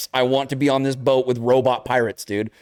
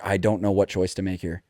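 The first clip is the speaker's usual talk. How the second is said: soft, low, defeated murmur; quiet low helpless mumble; lost and unsure; 9 semitones lower, 6 dB quieter than usual. Retold or imitated. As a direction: mutter it to yourself, stumped. Stuck on a dilemma.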